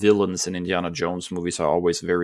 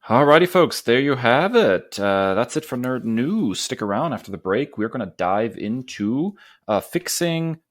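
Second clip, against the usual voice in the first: show host sign-off; 3 semitones higher than usual. Acted. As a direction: wrap up the segment like a radio host. Host signs off the segment.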